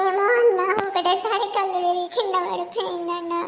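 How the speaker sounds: panicked cry. Acted. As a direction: blurt it out in fear. Panicked wife answers driver.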